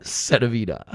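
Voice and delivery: mimicking a Croatian girl's English accent; imitated Croatian accent. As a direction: echo it in her Croatian accent, amused. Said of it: "that's the best fucking accent".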